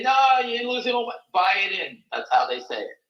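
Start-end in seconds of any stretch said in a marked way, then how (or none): 0.0-2.0 a pitched-up hint of a trader in a panic; half-hearted imitation of a cornered trader, a bit higher; mock panicky short seller.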